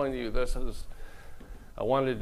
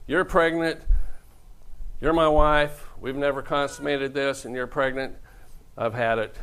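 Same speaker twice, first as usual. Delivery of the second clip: louder mock outrage; 3 semitones higher, 5 dB louder than usual. Joseph confronting Mary, voiced.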